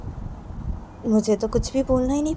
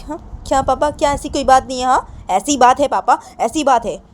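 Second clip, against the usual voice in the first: complaining daughter; 3 semitones higher than usual. Acted. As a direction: pout and argue back at papa. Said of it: "तो सुनैना अपने पापा को बोलती".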